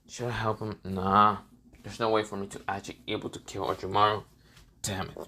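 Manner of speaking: low, lightly voiced pensive watcher; resigned onlooker. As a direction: muse to yourself in a low, subdued voice.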